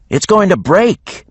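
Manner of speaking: doubtful of the weapon; worried Mischief. A narrator's reading. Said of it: "Mischief said".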